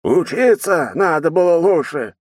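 slow, loud, booming golem voice; rumbling golem voice. A narrator's reading. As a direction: rumble it out like a stone giant. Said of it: "пророкотал грохочущий голос от голема".

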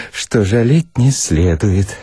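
ordinary delivery, nothing marked

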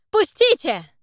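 high, loud struggling cry; desperate shout. Acted. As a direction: fight and yell to be released. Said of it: "продолжал сопротивляться Зак".

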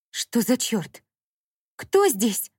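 squealing. A narrator's reading. Dasha hears a voice in the empty flat, squealing. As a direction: yelp in fright. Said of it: "взвизгнула Даша".

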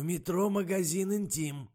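high-pitched burst of a sudden idea; excited outburst. A narrator's reading. Character jumps up with an idea.

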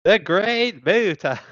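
slow, loud, high announcer boom; fighting game announcer. Retold or imitated. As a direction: stretch the name like a big reveal. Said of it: "that's your impression".

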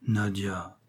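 soft, understated tender reproach. A narrator's reading. Father checking his outspoken daughter, with tender reproach. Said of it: "doucement ... avec un accent de tendre reproche".

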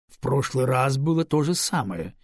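displeased grumble. Acted. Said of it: "недовольно проворчал начальник".

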